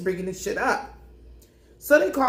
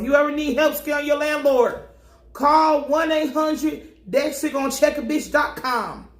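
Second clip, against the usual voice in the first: mock ad announcer; 5 semitones higher than usual. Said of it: "mock ad slogan".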